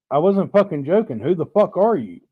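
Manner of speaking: gruff angry dad. Retold or imitated. Crotchety dad snapping at stranger.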